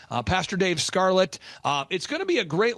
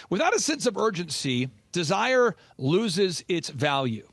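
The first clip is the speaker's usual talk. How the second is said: slow, weighty quote with desire drawn out; quoting Jim Rohn; slower than usual. Shown as a demonstration. Host quoting Jim Rohn to listeners, slow and weighty. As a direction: let desire loses its value land slowly. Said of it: "Jim Rohn says".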